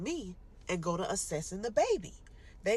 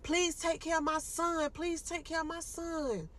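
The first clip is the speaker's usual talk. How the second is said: tearful farewell; 9 semitones higher than usual. Retold or imitated. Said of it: "I just kept saying".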